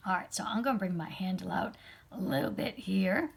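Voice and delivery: slight frog in the throat. Real, not acted. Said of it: "got a frog in my throat".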